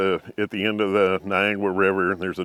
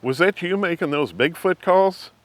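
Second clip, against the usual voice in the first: wife's question; 8 semitones higher than usual. Retold or imitated. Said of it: "she said".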